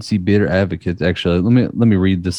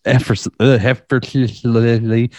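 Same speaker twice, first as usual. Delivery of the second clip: slow correction; slower than usual. Real, not acted. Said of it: "I messed it up".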